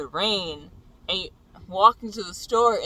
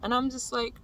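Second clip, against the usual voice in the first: ordinary delivery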